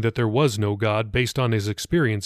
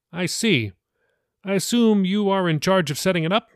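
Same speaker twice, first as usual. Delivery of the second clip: pastor voice; 6 semitones higher than usual. Acted. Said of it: "Billy asked".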